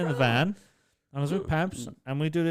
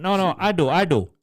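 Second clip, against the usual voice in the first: insistent; 4 semitones higher, 5 dB louder than usual. Retold or imitated. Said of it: "He went".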